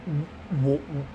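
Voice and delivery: broken-off "w" stutters with long gaps; speechless. Acted. Customer hearing the huge debt, acted speechless. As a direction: start a word and fail, stunned. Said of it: "I couldn't even talk".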